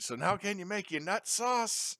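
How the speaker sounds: put-on high, slow, earnest child's question; innocent kid voice. Young son asking mom in the store, high and innocent. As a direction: ask it sweetly like a helpful little boy.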